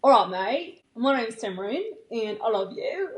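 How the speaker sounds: shaky attempt at a British accent that sounds Australian. Shown as a demonstration. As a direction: try a British accent and miss. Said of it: "For the British".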